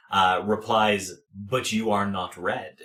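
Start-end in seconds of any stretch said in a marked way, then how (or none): 1.3-2.8 communal rat voice. Acted. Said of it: "kind of that communal voice".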